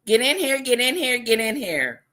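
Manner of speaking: lightly imitating a streamer's greeting; one guy's greeting. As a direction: bark it like a streamer pulling viewers in. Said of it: "One guy says".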